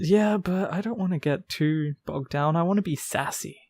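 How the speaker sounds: flat machine-like delivery; robot voice. Real, not acted. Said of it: "Is that why you talk like a robot".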